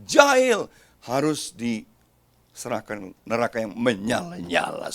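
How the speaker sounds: slow, dark warning of hellfire; slow it down and let the threat sink in; ominous. Acted. Pastor reading the hellfire verse to the church, slow and ominous.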